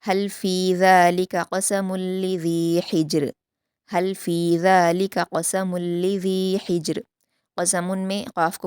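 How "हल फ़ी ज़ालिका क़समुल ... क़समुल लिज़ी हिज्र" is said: slow, melodic Quranic recitation; measured Quran recitation; tajweed recitation. Shown as a demonstration. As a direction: recite it slowly and carefully as a model for students. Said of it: "मा तजवीद पढ़ते हैं".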